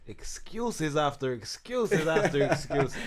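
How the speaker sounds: put-on slow Irish accent, Roy Keane style; lightly voiced Irish pundit accent. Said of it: "Forgive my Irish accent".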